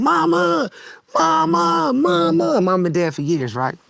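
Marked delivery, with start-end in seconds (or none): 0.0-2.6 imitating a scream. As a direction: call out for your dead mother in pain. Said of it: "my dad screamed".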